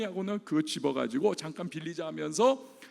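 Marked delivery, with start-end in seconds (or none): 1.3-2.1 soft, quick murmur to herself; quiet aside. Retold or imitated. Mother taking the lost swimsuit, a hushed aside.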